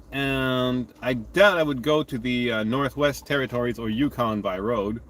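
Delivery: talking with a mouthful of ice cream; mouth full. Real, not acted. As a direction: chew and talk at once, words muffled. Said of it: "And I'm talking with my mouth full here".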